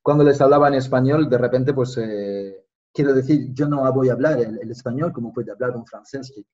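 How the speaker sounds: Spanish spoken on request, native ease; just talk, switching into Spanish; speaking Spanish. Shown as a demonstration. A Spaniard speaking Spanish when his friend asks. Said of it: "parle espagnol, là, vas-y, parle-moi espagnol".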